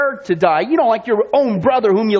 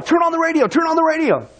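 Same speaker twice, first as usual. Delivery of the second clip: higher, urgent mock shout; retold panicked call, pitched up; urgent yell; 5 semitones higher than usual. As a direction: call out like you just ran in from the parking lot. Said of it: "and they yell".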